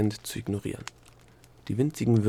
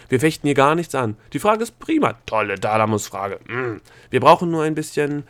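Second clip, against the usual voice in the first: loud, high, eager flattery; frantic placating; 4 semitones higher, 8 dB louder than usual. Acted. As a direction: backpedal loudly with gushing approval. Gnome hastily placating the examiner.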